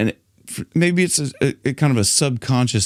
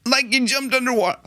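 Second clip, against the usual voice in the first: mock breath-held voice; 12 semitones higher, faster than usual. Shown as a demonstration. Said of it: "holding back".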